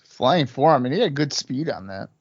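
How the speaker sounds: lively ringside play-by-play call; wrestling commentator. Acted. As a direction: call the match live like a broadcaster. Live play-by-play of the match.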